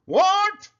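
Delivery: high, loud shocked What; scream. A narrator's reading. Pig alarmed by a wart, shrieking. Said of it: "Poppleton screamed".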